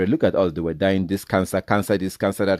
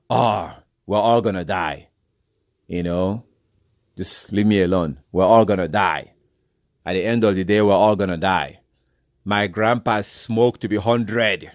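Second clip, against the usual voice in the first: smokers' shrugging excuse. Retold or imitated. Preacher mimics smokers who wave off health warnings, lightly mocking. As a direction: brush off the warning like a stubborn old smoker. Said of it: "That's how they talk".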